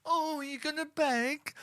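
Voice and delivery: high, slow, sneering mock pity; mocking taunt. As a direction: toy with a begging victim. Taunting imagined victim.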